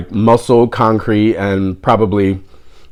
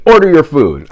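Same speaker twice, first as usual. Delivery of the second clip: higher, firm retold order; imitated bossy command; 4 semitones higher, 3 dB louder than usual. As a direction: imitate the old lady giving an order. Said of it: "she looked at me".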